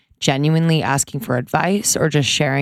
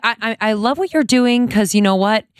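higher-pitched, halting mom quote; imitating friend's mother; 6 semitones higher than usual. Co-host quoting mom to daughter, imitated higher.

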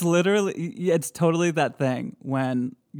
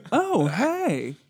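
much higher chirpy hey; mock ghost greeting; 9 semitones higher than usual. Offering a silly option for the ghost. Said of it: "Is it B".

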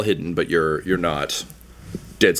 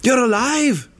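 gushing gnome; 3 dB louder than usual. Acted. Gnome Peachtree greeting Duncan with overplayed joy. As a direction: fake delight at finding Duncan. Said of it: "she's just like".

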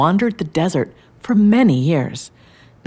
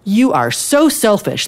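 higher, drawn-out exasperated exclamation; story character's exasperation; 5 semitones higher, 3 dB louder, slower than usual. A narrator's reading. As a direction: accuse slowly, at the end of patience.

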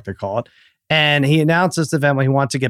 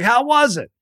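mock friend Brad; 10 semitones higher than usual. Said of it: "He's like".

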